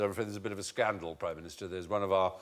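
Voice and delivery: low, hushed, discreet report; lightly voiced aide breaking awkward news; aide briefing Churchill. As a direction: keep it soft and low, deferential. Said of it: "And he said".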